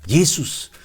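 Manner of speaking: "Jesus" said the English way, JEE-zus; English pronunciation. Shown as a demonstration. Preacher shows congregation the name in English, English pronunciation. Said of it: "cómo se pronuncia el nombre de Jesús, eh, en inglés".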